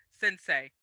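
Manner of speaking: bow with the word Sensei; Sensei, said with mock reverence; respectful. Shown as a demonstration. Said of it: "the most respect I could muster in my voice".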